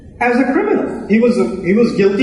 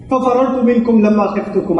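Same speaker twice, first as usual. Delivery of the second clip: Quranic recitation; 2 semitones lower, much faster than usual. Acted.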